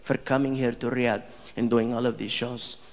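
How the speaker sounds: low, measured, dignified thanks; gracious prince. Retold or imitated. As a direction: speak like a composed, gracious royal. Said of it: "He's like".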